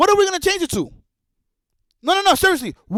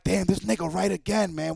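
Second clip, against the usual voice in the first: grudging admission; 7 semitones lower, 8 dB quieter than usual. Retold or imitated. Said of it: "they're like".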